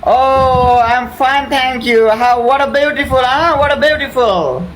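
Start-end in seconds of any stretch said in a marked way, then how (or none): none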